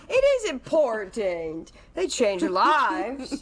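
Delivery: dog voice. Pretend. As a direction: speak for the dog, slow and high. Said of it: "I'm not gonna do the full dog voice".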